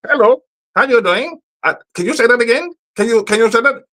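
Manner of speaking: high, far voice mimicking an Indian phone agent; mock call-center agent. Mocking the Indian phone agent to the viewers. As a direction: ape the call-center worker's accent.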